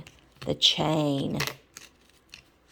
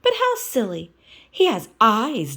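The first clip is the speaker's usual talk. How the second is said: Miss Piggy voice; 5 semitones higher, 6 dB louder than usual. Acted.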